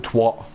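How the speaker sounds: "twat" said the American way; American-style twat. Shown as a demonstration. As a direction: mimic how Americans say "twat". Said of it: "Americans say twat".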